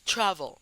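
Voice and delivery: "travel" said TRA-vel, falling off after TRA; first-syllable stress. Shown as a demonstration. Teacher demonstrating the tonic syllable, stress on start of "travel". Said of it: "tónica es tra".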